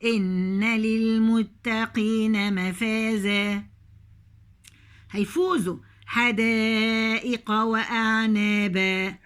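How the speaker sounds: slow measured tajweed chant; slow Quranic recitation. Shown as a demonstration. Recites verse slowly.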